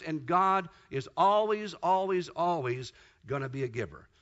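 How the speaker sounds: insisting that God is always a giver; repeated emphasis. Shown as a demonstration. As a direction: hammer the word always, then let it fall.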